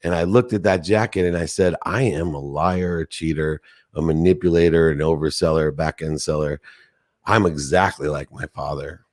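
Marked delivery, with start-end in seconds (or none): 1.8-9.0 choked-up self-confession. Retold or imitated. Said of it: "I started to cry".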